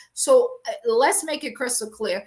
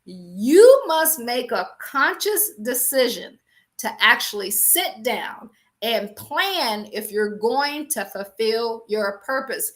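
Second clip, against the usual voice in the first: slow, louder repeat for the people in the back; slower than usual. Shown as a demonstration. Preacher repeats to people in the back, slower and louder. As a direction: say it again, slowly and louder, so the back row hears. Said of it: "I must say that one more time for the people in the back".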